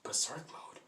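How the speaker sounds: hushed, questioning repeat; quiet confused question; puzzled echo. Retold or imitated. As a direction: repeat it softly, baffled. Onlookers puzzled by Deku's shout.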